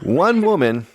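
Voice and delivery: badly faked English accent. Shown as a demonstration. Co-host in an accent guessing game, bad English accent. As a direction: attempt an English accent, not very well. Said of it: "that's obviously English, really bad English".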